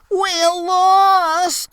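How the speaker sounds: high, loud panicked yell. Acted. Sprainer yelling in panic at the river bank, high. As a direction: cry out in alarm. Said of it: "Sprainer yelled".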